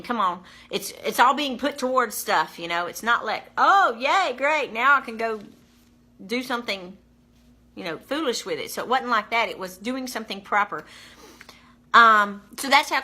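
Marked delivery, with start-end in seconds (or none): 3.6-8.7 mock glee. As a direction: parody a silly spender's delight. Mocking a frivolous reaction.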